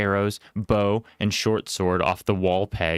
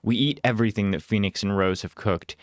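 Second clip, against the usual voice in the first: usual speaking voice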